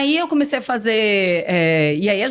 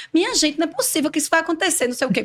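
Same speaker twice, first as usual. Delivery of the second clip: Pernambuco accent; 7 semitones higher, faster than usual. Shown as a demonstration. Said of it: "porque é o meu sotaque".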